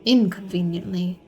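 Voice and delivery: measured first-person storytelling, projected and deliberate; Risman's story narration. A narrator's reading. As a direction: recount the story so far as the character.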